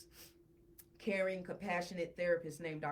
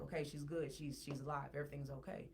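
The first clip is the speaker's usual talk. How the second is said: retold reassurance; 5 semitones lower, 9 dB quieter than usual. Retold reassurance after the revival.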